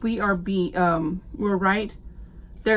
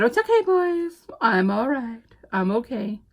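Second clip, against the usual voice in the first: reassuring dogs; 3 semitones higher than usual. Retold or imitated. Calming her frantic dogs.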